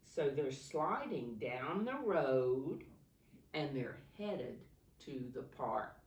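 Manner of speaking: rhythmic picture-book read-aloud; reading to children. Acted. Teacher reading a snow story to her class, lilting. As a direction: lilt the rhyming verse for the class.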